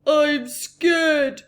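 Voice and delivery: put-on a frightened child crying out; scared cry. A narrator's reading. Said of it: "cried you".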